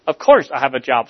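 a touch of indignant snap; a hint of offended mother; mild snap. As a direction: clip it back at her, mildly offended. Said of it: "snapped Emily".

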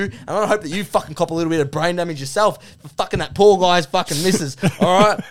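aggressive Aussie male rant; Duck. Acted. Duck rants at his co-host about man buns, aggressive. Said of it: "aggressive Australian male".

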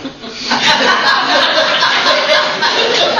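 breathless high laughter; real laugh. Real, not acted. Lecturer cracking up at his own towel story, laughing. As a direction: laugh out at the silly mistake.

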